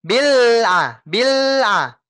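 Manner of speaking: bil A dengan b ditekan kuat; pressed bil. Shown as a demonstration. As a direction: double the b in bil A. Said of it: "Ditekan dulu, Pak". (bil A, b ditekan seperti tasydid)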